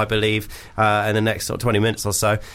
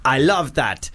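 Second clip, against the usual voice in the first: a lightly put-on panto Arabian accent, slightly higher; mock Arabian accent; 3 semitones higher than usual. Host reading a listener's email in a mock Arabian accent. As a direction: read the letter in a hammed-up Arabian accent. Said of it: "That was, uh, an Arabian accent".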